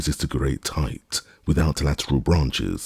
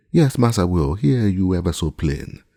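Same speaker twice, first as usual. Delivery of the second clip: higher, louder call; 5 semitones higher, 3 dB louder than usual. A narrator's reading. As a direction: answer from high up. Jupiter calls down.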